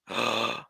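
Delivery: low breathy gasp of dismay; horrified gasp. Acted. Reacting to glass glitter, horrified gasp. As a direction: gasp at the very idea.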